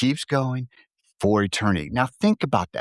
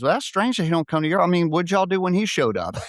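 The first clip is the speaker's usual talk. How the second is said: alien voice; 8 semitones higher than usual. Acted.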